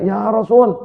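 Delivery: retold taken-aback complaint; startled protest. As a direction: cry out in mock astonishment. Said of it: "Maka wanita ini kaget".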